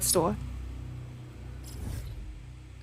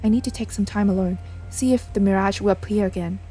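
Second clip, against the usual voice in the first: lightly acted game dialogue, earnest and dramatic; character dialogue. Player voicing the characters' conversation about the ghost, lightly dramatic. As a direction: voice the characters as you read the story scenes.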